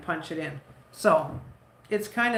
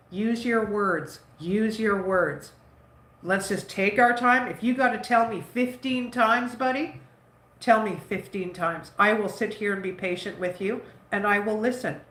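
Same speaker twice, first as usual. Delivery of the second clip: patient coaxing. Retold or imitated. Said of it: "I used to always tell him".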